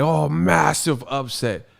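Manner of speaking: lightly put-on British accent; drawn-out hint of a British fan; mock British fan. Quoting UK fans online, light mock British accent. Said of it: "I keep seeing U K fans".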